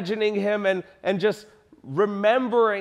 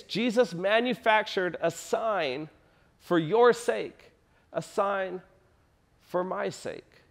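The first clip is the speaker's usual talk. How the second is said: softening to near hush; 5 dB quieter than usual. Real, not acted. Preacher drops his voice for the congregation's sake. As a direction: voice falls softer, slower on each phrase. Dropping to intimate aside.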